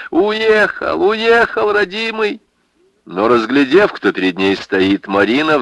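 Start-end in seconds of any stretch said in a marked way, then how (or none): 0.1-2.4 high keening lament; pitched-up tearful cry for her boy; old woman wailing. Acted. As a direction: wail it out like a grieving old woman. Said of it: "жалобно всхлипывала".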